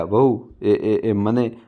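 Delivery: hesitant, faltering start with repeated syllables; a mother-in-law stammering timidly to her daughter-in-law, mildly nervous. Acted. Mother-in-law asking for food, mildly frightened stammer. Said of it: "ગભરાતા બોલ્યા".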